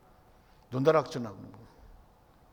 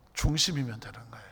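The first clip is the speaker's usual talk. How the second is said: soft intimate whisper, lower; 9 semitones lower, 6 dB quieter than usual. Acted. Preacher telling the congregation the one thing God wants, whispered. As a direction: lean in and breathe it. Key point of sermon, hushed.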